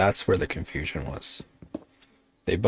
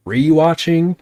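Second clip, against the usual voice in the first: much higher, louder disbelieving question; incredulous surprise; 9 semitones higher, 8 dB louder than usual. Real, not acted. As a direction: gasp it in disbelief. Reacting to chat message.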